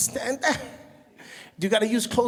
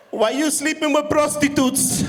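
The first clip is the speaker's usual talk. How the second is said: high, loud hammed-up wail; mock screaming cry; 4 semitones higher, 3 dB louder than usual. Mom hearing PTSD news, wailing loudly. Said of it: "She starts screaming, crying".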